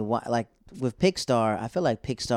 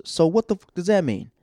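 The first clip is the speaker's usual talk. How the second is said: high, loud rough challenge; mock tough guy; 8 semitones higher, 5 dB louder than usual. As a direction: imitate the big guy snapping back. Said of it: "He goes".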